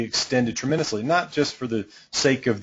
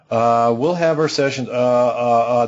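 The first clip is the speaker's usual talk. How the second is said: stammering coach; 5 dB louder than usual. Retold or imitated. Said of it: "there's gonna be a lot of stammering".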